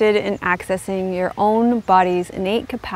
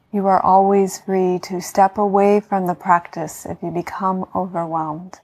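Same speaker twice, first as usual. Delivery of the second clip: guided meditation. Acted. Yoga teacher talking listeners into healing rest, calm meditation voice.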